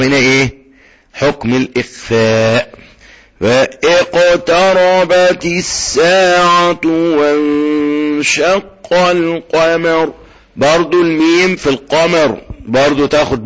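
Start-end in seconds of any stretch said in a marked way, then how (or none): 3.4-10.1 slow tajweed chant of the verse; measured Quranic recitation. Shown as a demonstration. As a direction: recite it slowly and melodically.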